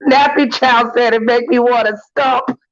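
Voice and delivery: bursting into laughter at a comment; laughing loudly. Real, not acted. Cracking up at a commenter.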